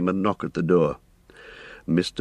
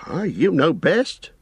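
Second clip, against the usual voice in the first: slow, knowing, higher voice; knowingly; 11 semitones higher, slower than usual. A narrator's reading. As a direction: drag it out with a sly knowing air. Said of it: "said the landlord, knowingly".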